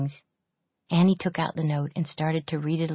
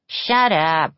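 shout; 6 dB louder than usual. A narrator's reading. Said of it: "shouted Pepper from the next bed".

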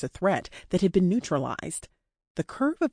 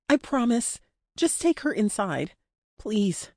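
raised-pitch entreaty; pleading; 4 semitones higher than usual. Acted. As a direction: plead to have a friend taken inside. Captive pleads for her friend.

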